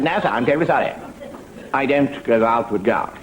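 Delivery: lightly voiced apologetic lieutenant, slowing at the end; a hint of upper-crust subaltern; young Sandhurst gentleman. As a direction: decline politely as a mock junior officer. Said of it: "a young gentleman just finished in Sandhurst".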